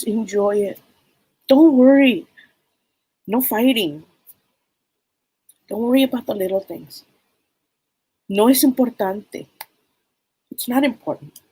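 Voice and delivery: a hint of grandma telling her not to worry; lightly voiced wise grandmother. Grandmother's spirit gives advice.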